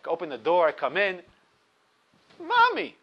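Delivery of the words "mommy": put-on child's call. Children calling for mother.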